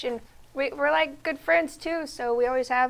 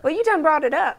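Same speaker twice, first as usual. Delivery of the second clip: a touch of Southern country talk; lightly folksy Southern delivery; country accent; 3 semitones higher than usual. Pretend. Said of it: "read these ingredients in a country accent".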